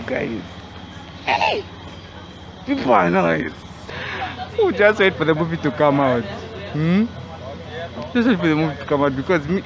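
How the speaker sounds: muffled through fabric mask; speaking behind face covering; through a cloth mask. Real, not acted. Seen 3: Cloth mask covers mouth and nose throughout; reference frames unmasked.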